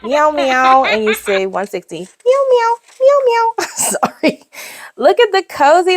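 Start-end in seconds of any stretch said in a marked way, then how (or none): 0.0-3.7 playful meowing. Pretend. Meowing at kitten page.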